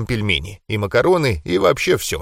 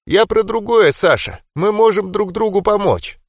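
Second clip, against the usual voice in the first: higher, sweet grandma voice; 8 semitones higher than usual. Acted. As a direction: voice a loving granny offering food.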